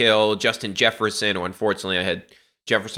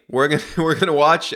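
laughing; 2 semitones higher than usual. Real, not acted. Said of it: "I don't know why I'm laughing".

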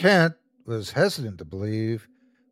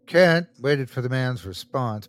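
ordinary delivery, nothing marked

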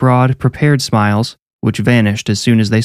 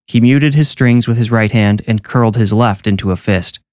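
ordinary delivery, nothing marked

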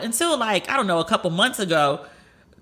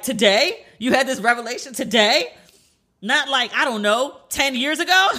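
questions pitched higher, teasing disbelief; imitated incredulous friend; 5 semitones higher than usual. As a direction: play the friend who can't believe it took this long. Friend mocks her late revelation.

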